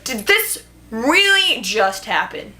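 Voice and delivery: slow, drawn-out incredulous question; acted disbelief. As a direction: stretch it out in mock disbelief. Acting out her disbelief while reading.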